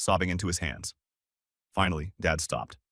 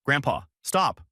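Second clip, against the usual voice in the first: louder, slow desperate stop; scream; 6 semitones higher, 3 dB louder than usual. Acted. Grandson screaming at his grandpa wrecking the car. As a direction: yell to make grandpa stop. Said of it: "Jake screamed".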